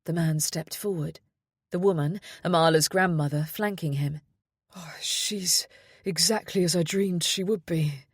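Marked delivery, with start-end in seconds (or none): 4.7-8.1 awed, barely voiced whisper; breathed whisper. A narrator's reading. Father meeting his baby daughter, breathless whisper. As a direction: breathe it out in wonder. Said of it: "he breathed".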